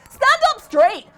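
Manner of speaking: loud, high bellowing order; furious drill yell; bawled order. A narrator's reading. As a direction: bark it down the line. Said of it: "bawled the same thing".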